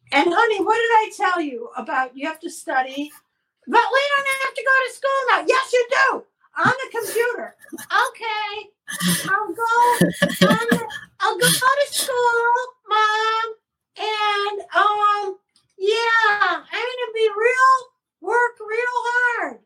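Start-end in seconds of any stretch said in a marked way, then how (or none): 3.7-15.4 put-on puppet child voice. 15.8-19.6 put-on whiny puppet child voice. Puppet promises.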